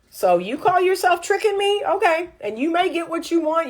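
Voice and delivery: a hint of a scolding lecture to a man; mock scolding. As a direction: tell him off with a knowing edge. Scolding a man who lies.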